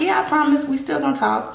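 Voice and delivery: retold reluctant promise, pitched high; hesitant. Retelling her promise to him that they'll talk, hesitant. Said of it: "I'm kinda hesitant".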